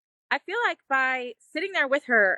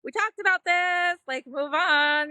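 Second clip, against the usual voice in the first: impatient inner voice; 3 semitones higher, slower than usual. Retold or imitated. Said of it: "wanting to fix it".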